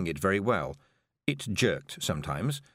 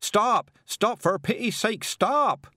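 high, loud cries for help; desperate yell; 12 semitones higher, 5 dB louder, slower than usual. A narrator's reading. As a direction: yell to be stopped as you hurtle past. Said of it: "yelled the carter as he sailed past".

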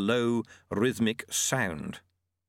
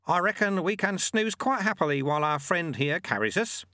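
put-on raised, calm old sweeper; old monk voice; 8 semitones higher than usual. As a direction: voice the sly old monk lightly. Narrator voices Lutze.

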